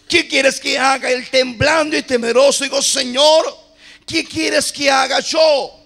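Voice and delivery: dramatic, driving sermon retelling; fervent preacher voicing the story; impassioned preaching. Real, not acted. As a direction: act out the scripture for the congregation. Preaches Paul's conversion at full force.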